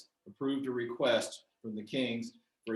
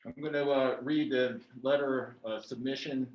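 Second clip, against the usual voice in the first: muffled behind a mask; speaking through a face mask. Real, not acted. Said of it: "Can you hear me okay through this mask?".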